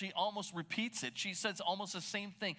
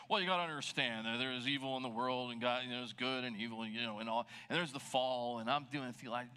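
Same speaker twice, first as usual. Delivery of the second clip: mock lecturing; 5 semitones lower than usual. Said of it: "I would go into a theological explanation".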